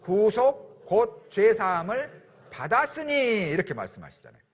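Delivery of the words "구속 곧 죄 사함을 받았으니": slow, deliberate reading together; slow scripture reading. Real, not acted. Pastor leading the congregation in reading the verse, slow. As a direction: draw each word out as scripture. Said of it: "같이 읽겠습니다".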